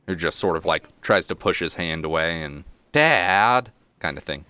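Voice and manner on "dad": put-on mildly exasperated kid's protest; embarrassed son. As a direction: whine it a little, like a son fending off Dad. Embarrassed son pushes father's hand away.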